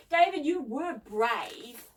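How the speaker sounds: slow, admiring praise for a friend; appreciative. A narrator's reading. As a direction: praise them slowly and appreciatively. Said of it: "said Debbie appreciatively".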